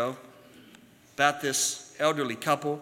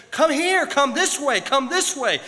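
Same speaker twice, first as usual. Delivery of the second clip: much higher and louder, urgent calls; agitated shouting; 11 semitones higher, 8 dB louder, slower than usual. Retold or imitated. Upset man shouts at stubborn bird, loud and high. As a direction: yell at the bird in frustration. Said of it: "the man grew upset. He grew agitated".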